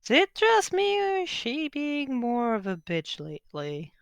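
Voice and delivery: high opening that drops back down and softens; Javier. Acted. Game master voices Javier after Alba's scream, in character. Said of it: "would look at you as like".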